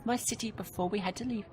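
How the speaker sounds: steady storyteller read of the game text; story narration. Acted. Gamer reading the travel story to viewers, in a narrator voice. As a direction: read the passage like an audiobook.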